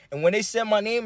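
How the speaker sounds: ordinary delivery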